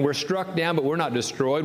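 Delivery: ordinary talk, nothing marked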